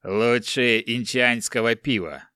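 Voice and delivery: sleepy grumble. Acted. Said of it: "сонно пробурчал великан".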